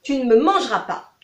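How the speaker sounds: petit lapin plus haut et plus fort; lapin qui refuse. Acted. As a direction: non non non, ferme et espiègle. Rabbit refuses. (lapin décidé, voix aiguë et forte)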